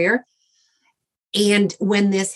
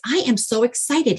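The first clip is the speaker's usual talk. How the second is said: excited quote; 6 semitones higher than usual. Retold or imitated. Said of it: "He goes".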